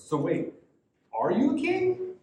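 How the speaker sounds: confused question leaping very high on "are you a king"; baffled double-take, pitch shooting up; confused Pilate. Acted. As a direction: ask it in sheer confusion. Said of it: "the inflection of confusion in the word".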